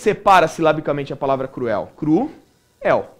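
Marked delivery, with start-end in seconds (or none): 2.0-3.1 "Cru-el" said as two separate syllables, cru then el; split into syllables. Shown as a demonstration. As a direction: break "Cru-el" apart, a small gap between cru and el. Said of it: "Dá pra perceber?". ("Cru-el" separado em duas sílabas, cru e el)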